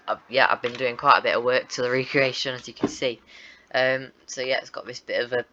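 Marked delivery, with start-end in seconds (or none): 4.6-5.4 talking through hiccups. Real, not acted. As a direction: hiccups breaking into the words. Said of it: "Sorry, I've got hiccups now".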